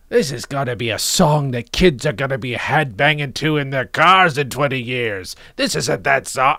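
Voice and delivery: lightly voiced dismissive record executive; mock record boss. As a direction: brush the song off like a smug music boss. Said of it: "and he's like".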